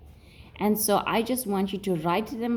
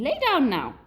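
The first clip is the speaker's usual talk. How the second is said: a raised pitch, teacherly order; mock command; 6 semitones higher than usual. Shown as a demonstration. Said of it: "I'm saying".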